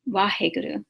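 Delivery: "Waheguru" starting between a V and a W; blended V and W. Shown as a demonstration. Teacher showing the mixed letter, V and W blended. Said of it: "So you see it's a ba and a wa".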